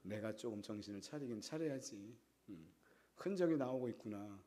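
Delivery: low, hushed talking to himself; soft, low self-reflection; inner thought. Retold or imitated. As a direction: voice a private admission, very softly. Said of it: "하지만 속으로는".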